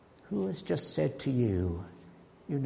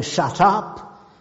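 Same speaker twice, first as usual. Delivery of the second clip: loud, higher mock order; sharply raised, stern acted command; stern silencing; 6 semitones higher, 8 dB louder than usual. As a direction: act out a crowd loudly silencing someone. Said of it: "the disciples sternly".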